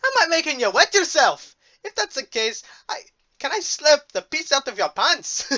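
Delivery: playful Scottish bear voice; mock Scottish accent. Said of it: "you have a better accent than mine".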